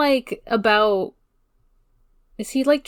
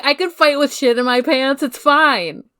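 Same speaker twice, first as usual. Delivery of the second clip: higher, louder brag breaking into laughter; laughing mock brag; 5 semitones higher, 3 dB louder than usual. Subaru bragging to Felt, laughing through it. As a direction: boast while cracking up.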